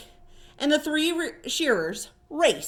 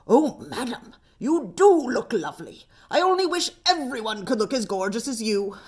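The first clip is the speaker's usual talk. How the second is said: flattering salon talk; faster than usual. Acted. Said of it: "learned how to speak to the other clients".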